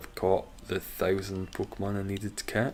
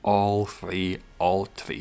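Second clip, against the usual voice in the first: put-on Irish accent; 4 dB louder, much slower than usual. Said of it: "can do me Irish accent".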